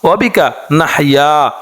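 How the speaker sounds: slow, measured Arabic prayer chant; dua recitation. Acted. Teacher reciting the morning dua to listeners, slow chant. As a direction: draw each phrase out like a prayer.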